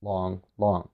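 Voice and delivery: both "Long" drawn out evenly and softly; two even held beats, "Long, long"; rhythm of a spondee. Shown as a demonstration. Teacher demonstrating the spondee to students, two even held beats. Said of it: "A spondee is composed of two longs".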